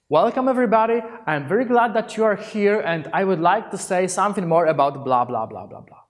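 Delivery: welcoming greeting. Shown as a demonstration. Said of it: "is doing like this".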